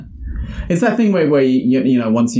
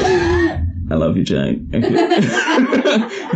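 swooning fan; 12 semitones higher, much slower than usual. Acted. Swooning declaration to YouTuber.

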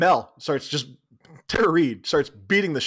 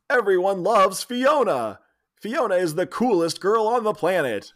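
subliminal message voice; 5 semitones higher, slower than usual. Acted. Subliminal message playing in movie.

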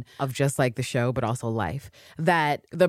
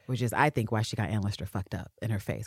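normal talking voice

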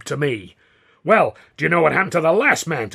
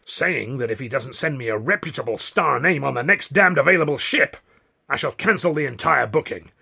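outraged, increasingly pitched-up rant; angry ultimatum; 5 semitones higher, 4 dB louder than usual. A narrator's reading. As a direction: bluster rising to high, loud defiance. Considine's angry ultimatum, building.

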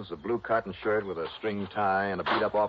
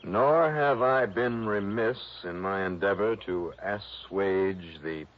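slow, lofty Shakespearean reading; grand tragic wailing; slower than usual. Acted. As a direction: ham it up like an old stage actor. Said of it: "an old ham actor".

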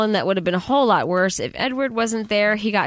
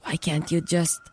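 put-on Transylvanian accent; 4 semitones lower than usual. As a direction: imitate a weird Transylvanian accent, understated. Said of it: "a weird, like, Transylvanian kind of accent".

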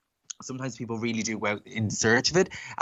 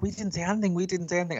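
high-pitched repeated denial; imitated protest; 8 semitones higher, faster than usual. Cinema lads denying it to their manager, high mimicked protest. Accused staff deny it again.

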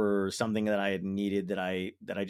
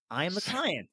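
sly admission; 7 semitones higher than usual. Acted. Acted sly evasion to insurer.

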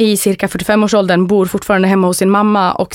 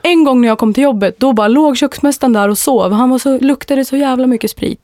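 put-on Stockholm accent; 4 semitones higher than usual. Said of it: "en sån riktig råttan i pizzan-historia som man alla har hört".

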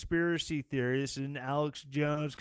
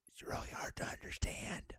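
whisper; 11 dB quieter than usual. Real, not acted. Snarky aside about the speech.

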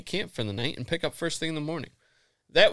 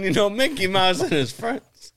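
Goofy cartoon voice; 11 semitones higher, 6 dB louder than usual. Imitating Goofy cartoon narrator voice.

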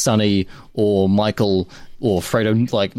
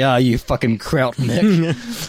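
drawn-out mock slur from a rude director; lightly voiced director insult; slow sneering insult; 3 semitones higher, much slower than usual. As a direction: sneer it slowly and scornfully. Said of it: "He's like".

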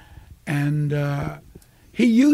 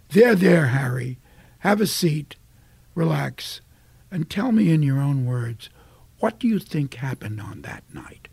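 playing an older DA; 4 semitones lower than usual. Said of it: "I was playing it older".

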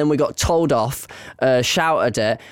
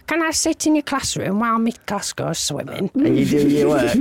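light, higher-pitched pupil voice; schoolchild asking a teacher; 5 semitones higher than usual. Retold or imitated. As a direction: lightly imitate a pupil's polite request. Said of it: "go to another teacher and say".

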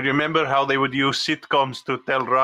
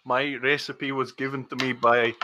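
put-on Russian accent drifting slightly Scottish; put-on Russian with a Scottish tinge; accent slipping into Scottish. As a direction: let the Russian accent slip towards Scottish. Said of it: "You've gone slightly Scottish there".

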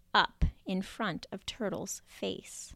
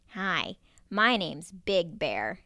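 exclaimed; 3 semitones lower than usual. Acted. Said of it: "exclaimed one of the bears".

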